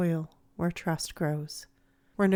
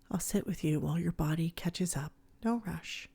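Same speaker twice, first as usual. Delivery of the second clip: soft, unhurried and gentle; quiet reassurance; 5 dB quieter than usual. Acted. Therapist to a shutdown teen, quiet reassurance. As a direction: say it quietly, leaving room. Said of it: "Then quietly".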